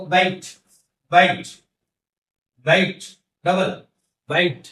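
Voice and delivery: "बाइट" with a full gliding vowel; "बाइट" carefully demonstrated as a double vowel; long double vowel. Shown as a demonstration. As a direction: glide through both vowel sounds in "बाइट". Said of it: "अब बड़ा वाला है".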